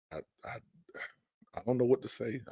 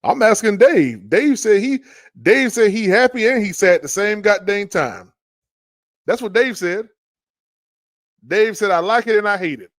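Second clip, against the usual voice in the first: incredulous rant; 8 semitones higher, 9 dB louder than usual. Real, not acted. Ranting about Dave's comment.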